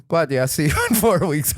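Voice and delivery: put-on lightly accented, unbothered dismissal; Jamie's accent. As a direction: brush him off in Jamie's accent. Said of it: "'cause Jamie has that accent".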